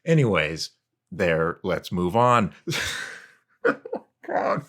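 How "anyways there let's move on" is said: YouTube script reading tone. Shown as a demonstration. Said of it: "I'm going to continue doing this".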